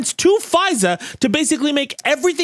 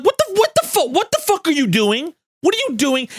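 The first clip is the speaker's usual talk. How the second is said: high, disbelieving mock outburst; incredulous court; 7 semitones higher than usual. The Supreme Court reacting to Bush, high sputtering disbelief. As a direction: sputter it like a court that can't believe what it's seeing. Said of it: "the Supreme Court was like".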